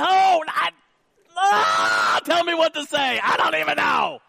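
high, loud comic wail; panicked husband. Acted. Cornered husband begging his wife, mock panicked shout. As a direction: cry out helplessly, hammed-up panic.

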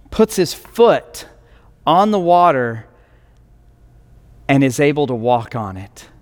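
normal talking voice

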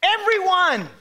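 Everyone hit high and loud, falling; emphasized everyone. Shown as a demonstration. Pastor stressing the point to the church, high loud Everyone. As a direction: punch Everyone. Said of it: "I've got to emphasize these points".

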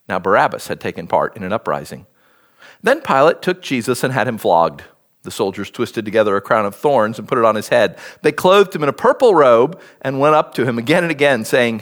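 measured Bible reading with pauses between phrases; scripture reading. A narrator's reading. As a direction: read the passage aloud, lightly voicing the dialogue. Reads the Bible passage aloud.

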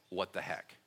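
"What the heck?" low and soft, as if thought; inner "what the heck". Shown as a demonstration. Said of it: "think to yourself".

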